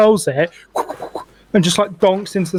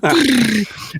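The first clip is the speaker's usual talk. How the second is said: imitated throwing noise; 5 semitones higher than usual. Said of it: "She's just going".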